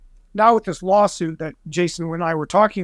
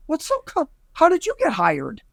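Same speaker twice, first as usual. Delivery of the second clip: high-pitched mock indignation; retold exasperated argument; 8 semitones higher than usual. Consultant retelling his retort to the network, mildly exasperated. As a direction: challenge them, half-acting the outrage. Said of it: "kind of in a yelling situation".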